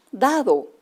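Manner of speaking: dado with a falling, settled tone; confirming answer. Shown as a demonstration. Teacher confirming dado rhymes with helado. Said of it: "¿Qué rima con helado?".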